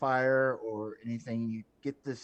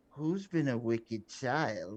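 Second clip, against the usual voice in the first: slow, motherly voice. Game narrator voices what you hear when picking the item up: motherly voice. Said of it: "you hear in a motherly voice".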